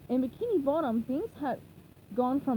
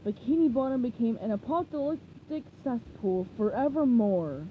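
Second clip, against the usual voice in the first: lightly voiced pirate; a hint of the pirate reading; mild pirate storyteller. Burger Beard voiced in story.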